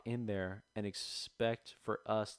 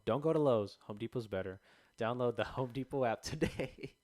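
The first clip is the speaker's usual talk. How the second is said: mock ad shout-out; 3 semitones higher, 4 dB louder than usual. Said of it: "giving it a shout out".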